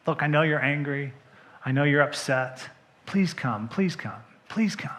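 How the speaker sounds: soft, fading pleas; pleading father. Acted. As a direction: gently beg him to come in.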